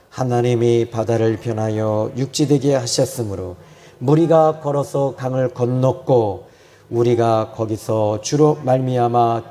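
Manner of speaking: slow, measured group reading with drawn-out endings; leading scripture recitation. Real, not acted. Preacher leading the congregation in reading the verse together, measured recitation. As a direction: lead everyone through the verse at a slow pace.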